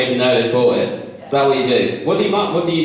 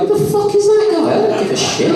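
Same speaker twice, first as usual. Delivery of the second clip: imagined dismissive reply. Retold or imitated. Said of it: "then he'll be like".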